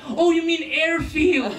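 slow, high, drawn-out realisation; exaggerated slow "oh" of understanding; mock realisation. Girl finally understands.

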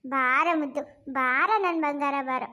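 tender, drawn-out coaxing; coaxing a baby. Acted. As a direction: soothe a crying infant into your arms. Coaxing crying baby to come. (ಮಗುವನ್ನು ಸಮಾಧಾನಿಸುವ ಮುದ್ದು ಧ್ವನಿ)

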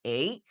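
এই with a glide into ই; correct A. Shown as a demonstration. Teacher answering how A is said, gliding এই. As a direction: glide এই from এ to short ই. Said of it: "এটার উচ্চারণ কি হচ্ছে".

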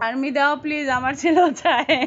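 amused, loud finish with laughing; laughing plea. Real, not acted. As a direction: end the request in a real laugh. Reads plea, bursts out laughing.

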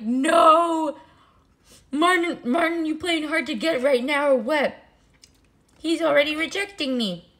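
high, loud, dramatic wail of rejection; mock-heartbroken whine. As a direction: plead with Martin, hamming up the hurt. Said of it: "And I was so sad".

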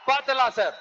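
பாத்துடலாம் shouted through a laugh; mocking laugh on பாத்துடலாம் sir; laughing dare. Real, not acted. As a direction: throw பாத்துடலாம் at them, amused.

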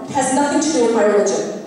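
fast, acted angry retort; pent-up anger spilling out quickly; breaking into anger. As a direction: rattle it off, fed up and defiant. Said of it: "When I finally do break and say".

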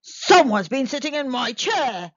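loud growling bear voice; growling Father Bear. Acted. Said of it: "growled Father Bear".

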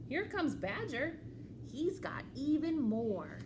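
lively, measured storytime reading; children's story read-aloud. A narrator's reading. Librarian reads a picture book to children, animated storytelling. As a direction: read to little ones, pausing before the reply.

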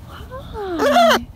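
ordinary delivery

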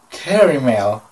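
"caramel" as "KERRY-mel"; puzzled "caramel", middle vowel turned to "ee"; caramel said her way. Retold or imitated. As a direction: echo her odd "caramel", first syllable like "care". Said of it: "That's what she said".

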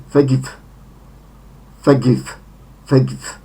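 forGIVE, short e then short i; second-syllable stress. Shown as a demonstration. Teacher models the first form, forgive stressed on second syllable. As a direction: stress "give" in forgive, keep both vowels short. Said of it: "akcent na drugą sylabę".

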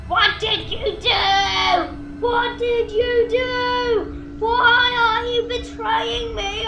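slow, whiny mock sob; drawn-out pretend crying shout; mock wailing. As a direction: ham up a betrayed friend's wail. Voicing betrayed skeleton, mock crying.

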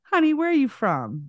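high-pitched mock Southern sweetness; imitated Southern dialect. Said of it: "or whatever the dialect was".

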